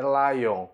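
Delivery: "lion" said in English as LIE-on; English pronunciation. Shown as a demonstration. Teacher contrasts the animal with sign Leo, English pronunciation. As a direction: model "lion" with a long English I. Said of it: "O leão em inglês é".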